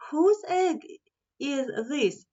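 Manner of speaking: high owl call. Acted. Owl calls out again.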